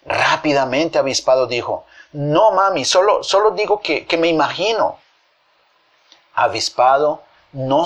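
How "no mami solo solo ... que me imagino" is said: higher, hesitant excuse; caught-out child fumbling an excuse; flustered backtracking. Acted. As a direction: stumble over the excuse in a raised pitch.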